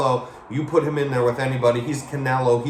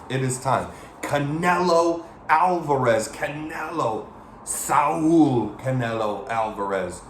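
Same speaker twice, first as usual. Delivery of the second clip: mock ring announcer; 2 semitones higher than usual. Fight announcer intro call.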